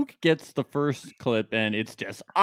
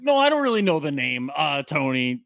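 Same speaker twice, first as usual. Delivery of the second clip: mocking Edgar; 3 semitones higher than usual. Host mocks Edgar pretending to forget Tony's name. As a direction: pretend not to know the name, higher. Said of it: "and then he's like".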